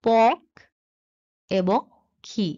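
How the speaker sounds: পক then খি, split apart with long pauses; teacher splitting পক্ষী into পক and খি; syllables spelled out. Shown as a demonstration. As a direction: break পক্ষী into পক and খি, slowly. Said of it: "তাহলে আমরা পাবো".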